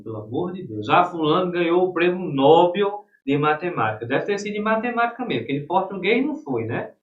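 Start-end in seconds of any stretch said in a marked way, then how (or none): 0.9-4.0 imitating someone who says "Nobel" as NÓ-bel; louder mock quote with NÓ-bel for "Nobel"; mock wrong stress. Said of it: "não é Nobel".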